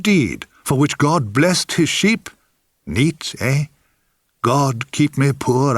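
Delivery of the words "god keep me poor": mock prayer. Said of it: "I prayed".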